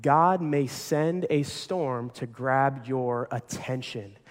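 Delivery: slow and weighty, word by word; slow emphatic. Shown as a demonstration. Pastor stating his point slowly to the congregation. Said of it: "our third point today in your notes".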